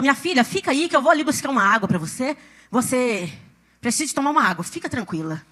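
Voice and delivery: lightly voiced caring helper calming someone down; soothing church helper. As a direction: ease off into a soft, low tone. Church helper calms her, retold.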